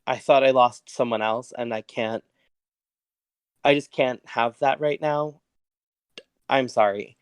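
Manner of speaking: mildly choked-up, halting apology; understated tearful overwhelm. Acted. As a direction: break it with long pauses, holding back a sob. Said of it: "getting choked up".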